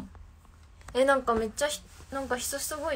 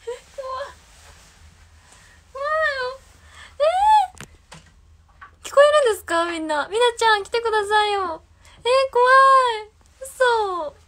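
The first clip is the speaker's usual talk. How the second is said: real fright, voice jumping high and loud; frightened cries, pleading for a friend to come; scared; 12 semitones higher, 10 dB louder, slower than usual. Real, not acted. Streamer spooked by viewers reporting noises in her room, scared high cries.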